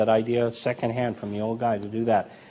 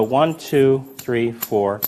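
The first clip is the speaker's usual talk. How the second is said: casual count; 4 dB louder, much slower than usual. Shown as a demonstration. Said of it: "and that looks very casual".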